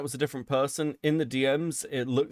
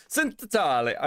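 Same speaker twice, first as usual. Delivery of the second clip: higher, hammed-up Italian accent; bad Italian accent; 5 semitones higher than usual. Shown as a demonstration. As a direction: play up a fake Italian accent. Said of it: "put on a shit Italian accent".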